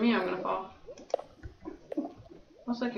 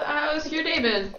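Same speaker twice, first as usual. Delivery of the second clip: nerd voice; 7 semitones higher, slower than usual. Acted. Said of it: "your stupid nerd voice".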